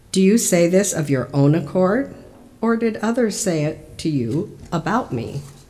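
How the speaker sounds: ordinary delivery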